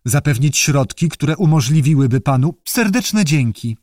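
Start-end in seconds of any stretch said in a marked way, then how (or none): 2.7-3.8 slow, moved thank-you; a hint of being moved, taken slowly; touched thanks. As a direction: newt thanks them, mildly touched. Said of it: "mruknął nasz przyjaciel wyraźnie wzruszony".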